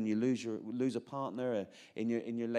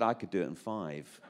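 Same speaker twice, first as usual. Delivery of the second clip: lower, calm, knowing reply; a lightly voiced God topping the boast; a hint of a deep divine voice; voicing God; 6 semitones lower than usual. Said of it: "and God said".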